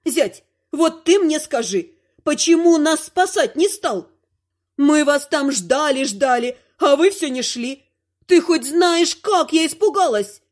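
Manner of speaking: жалобный упрёк. Acted. Бабуля упрекает зятя.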